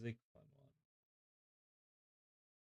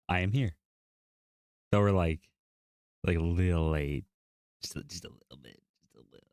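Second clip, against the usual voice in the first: deep goofy voice; 12 semitones lower, 6 dB louder than usual. Pretend. Deep loud voice chant.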